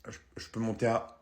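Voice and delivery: lowball the customer sweetly; pawnbroker. Acted. Antiquaire qui négocie. (antiquaire radin, voix basse et douce)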